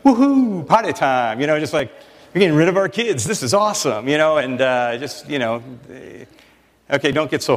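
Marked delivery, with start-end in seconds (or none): 0.0-4.1 a high woohoo of mock relief; playful mock celebration; mock glee. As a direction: cheer like a parent set free. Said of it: "it's like".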